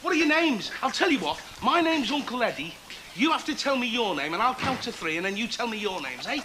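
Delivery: put-on lively children's entertainer; jolly them along, then count them in; talking to small children. Talks to group of children.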